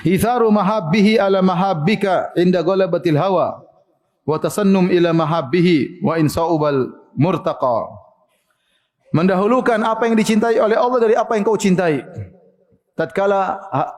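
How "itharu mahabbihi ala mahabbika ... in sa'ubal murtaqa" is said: slow, measured reading of the Arabic; preacher reading a classical Arabic passage; Arabic recitation. Acted. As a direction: recite it deliberately, word by word. Reads Arabic text slowly.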